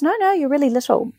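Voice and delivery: high insistent nurse quote; nurse insisting. Retold or imitated. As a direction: pitch it up, cooing insistence. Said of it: "she goes".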